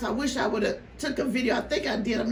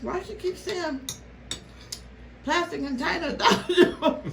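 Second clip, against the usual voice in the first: mock viewer; 6 semitones higher than usual. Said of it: "somebody's like".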